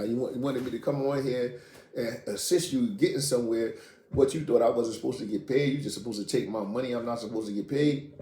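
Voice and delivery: telling him off again, with real heat; retold anger. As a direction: partner demanding money, mock outraged rant. Retold confrontation with his partner.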